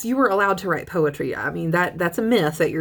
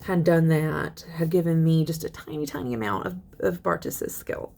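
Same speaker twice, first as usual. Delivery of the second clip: teacher voicing the poet's wistful wish. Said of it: "She's just kind of this wistful".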